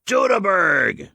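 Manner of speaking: exclaimed high and drawn out, Teutoburg; triumphant. A narrator's reading. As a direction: Teutoburg called out high with a long falling tune. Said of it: "he spoke one word triumphantly".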